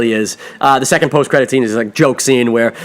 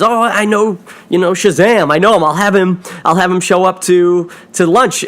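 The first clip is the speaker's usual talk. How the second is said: raised, eager voice of a bragging schoolkid; boastful kid; 5 semitones higher than usual. Retold or imitated. Retelling the bullied kid's boast, higher and eager. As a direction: brag like a bullied kid showing off.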